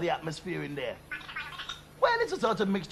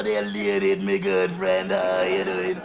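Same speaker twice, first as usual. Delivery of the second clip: mock Russian-bloc greeting; 13 semitones lower, 3 dB louder, slower than usual. Greeting Brezhnev on the phone.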